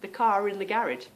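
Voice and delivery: "car in" run together as "car rin"; linking R. Shown as a demonstration. Example for viewers, "car in" joined by R. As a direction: move the R of "car" onto "in". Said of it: "R seems to go on to the beginning".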